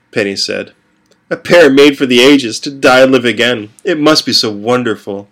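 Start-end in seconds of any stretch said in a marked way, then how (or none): 1.3-5.3 lightly voiced eerie girl, dreamy and teasing; a hint of a creepy seer mocking the lovers; Penny's voice.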